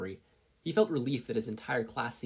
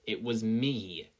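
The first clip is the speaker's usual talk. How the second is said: abrupt, flat admission; much slower than usual. Acted. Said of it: "said abruptly, with little emotion".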